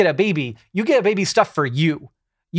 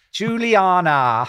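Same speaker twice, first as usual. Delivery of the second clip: slow, drawn-out Juliana in a British accent; a mild, not-quite British accent on Juliana; much slower than usual. Shown as a demonstration. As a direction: say Juliana like a Brit. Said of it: "pronounce this with a British accent".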